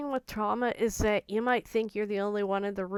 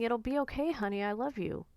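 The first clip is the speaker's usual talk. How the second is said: Elizabeth's gentle reassurance; 3 semitones higher than usual. Retold or imitated. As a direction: comfort someone the way she used to. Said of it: "she would be saying".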